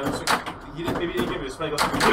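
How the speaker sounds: ordinary delivery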